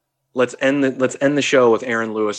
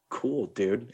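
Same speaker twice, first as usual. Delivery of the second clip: softer, dismissive imitation; a singer shrugging it off; 6 dB quieter than usual. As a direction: toss it off with a raised eyebrow. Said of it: "shrugs his shoulders, raises his eyebrow".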